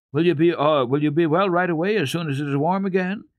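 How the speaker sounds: put-on bright, eager child's question, voice up high; eagerly hoping she'll be well soon. A narrator's reading. Heidi eagerly asks her sick grandmother, high and keen. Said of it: "said Heidi eagerly".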